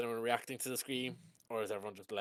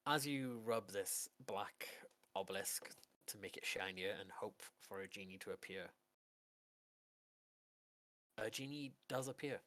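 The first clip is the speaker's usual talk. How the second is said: slow, measured scene-setting with pauses; game master narration. Acted. Game master revealing a genie to Adonis's player, suspenseful narration. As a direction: unveil it slowly, phrase by phrase.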